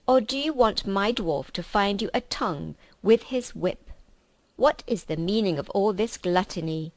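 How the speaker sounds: scolding witch queen. Acted. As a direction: berate the feasting creatures.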